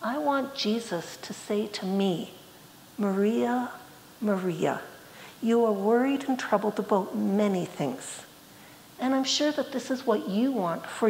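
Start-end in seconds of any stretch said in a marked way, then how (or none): 3.0-8.2 mildly tender, unhurried reassurance; tender, loving. Acted. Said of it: "It is tender and loving".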